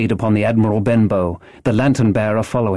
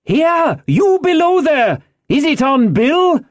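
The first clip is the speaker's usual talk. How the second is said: high, demanding shout; urgent high-pitched holler; blind man's cry; 4 dB louder, slower than usual. A narrator's reading. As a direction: yell the question at the man below. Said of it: "cried the blind man again".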